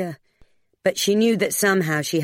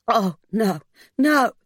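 distressed refusal, climbing higher and louder; cracking voice; 6 semitones higher, 3 dB louder, slower than usual. A narrator's reading. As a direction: let alarm break into the voice. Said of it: "her voice cracked".

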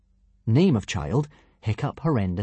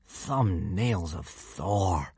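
appalled musing; 3 semitones lower, 6 dB quieter, much slower than usual. A narrator's reading. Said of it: "he was thinking".

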